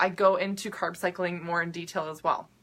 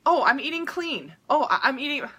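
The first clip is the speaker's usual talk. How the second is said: higher, lightly put-on voice; mock clean eater; 5 semitones higher than usual. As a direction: imitate a dieter reporting proudly. Mimics a self-satisfied clean eater.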